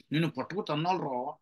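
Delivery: play-threaten softly, with affection; affectionate mock threat. Shown as a demonstration. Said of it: "ముద్దుగా ఉంటే అంటారు". (ముద్దుగా, మెల్లగా బెదిరిస్తూ)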